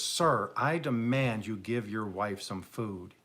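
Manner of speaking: slow, mildly angry demand; acted stern ultimatum, slowly spaced; flipping out. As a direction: draw out each word in mock indignation. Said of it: "Finally, the guy flips out".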